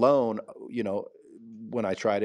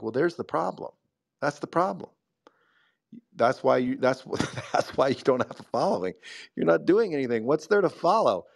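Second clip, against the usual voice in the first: laughing while telling him off, pitched up; amused scolding; 4 semitones higher than usual. Retold or imitated. To a guy who does nothing, amused laughing scolding. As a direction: tease him through a laugh, half scolding.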